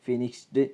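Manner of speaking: "ഫിനിഷ്ഡ്" with an added final vowel; wrong du ending. Shown as a demonstration. Teacher mimics learners' mistake, "ഫിനിഷ്ഡ്" ending -du. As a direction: say "ഫിനിഷ്ഡ്" as finish-du. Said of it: "അങ്ങനെയല്ല പറയാ".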